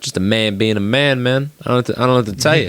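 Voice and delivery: light put-on bro voice, rattled off fast at the end; mock Cameron voice. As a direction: shrug it off like a dude being a dude. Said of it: "And he goes".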